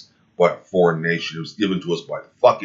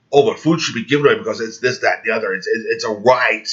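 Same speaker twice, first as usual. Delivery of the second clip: mocking quote; 3 semitones higher than usual. Mocking opponents' argument.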